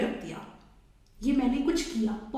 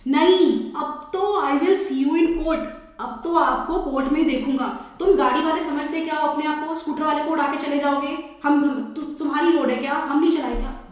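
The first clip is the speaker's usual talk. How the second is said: louder angry rant, rushing toward the end; still furious; 2 semitones higher, 3 dB louder than usual. Acted. Scooter rider threatening the driver with court, loud and angry. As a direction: refuse to calm down and threaten court. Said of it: "पर वो शांत ही नहीं हो रहा".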